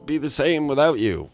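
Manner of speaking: high-pitched, put-on sympathy; fake disappointment. Host faking sorrow to his absent co-host, unconvincingly. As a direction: feign being sorry, hammed-up and halting. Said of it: "does that sound believable?".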